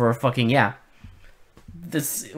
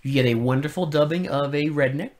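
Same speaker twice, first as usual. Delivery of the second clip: sarcastic praise. Real, not acted. Co-host praising terrible redneck dubbing to friend, sarcastic.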